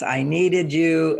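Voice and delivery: slow needy complaint. Retold or imitated.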